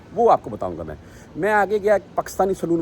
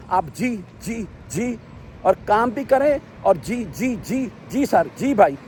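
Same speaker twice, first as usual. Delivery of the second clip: lightly mimicked eager "جی، جی", a bit higher; a hint of a bowing, eager-to-please barber; fawning yes-sir barber; 4 semitones higher, slower than usual. Mimicking Pakistani barbers fawning over customers, lightly higher and eager. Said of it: "ایسے".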